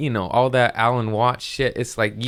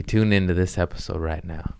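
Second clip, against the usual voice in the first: mock soothing voice. Host inviting listeners to tune in, mock soothing. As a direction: ease listeners into the episode. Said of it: "I got a soothing voice".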